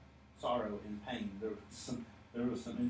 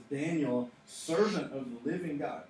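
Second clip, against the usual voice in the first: slightly raised calling voice; mild mock yell. Preacher as the king calling to Daniel in the lions' den, mild yell. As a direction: project it a little, imitating a call into the den. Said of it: "he yells into this moment".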